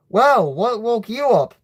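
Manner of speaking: high, cheeky jab; funny but rude. A narrator's reading. Brother needling his just-woken sister, funny but rude. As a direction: tease rudely with swooping pitch. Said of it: "in a funny but rude way".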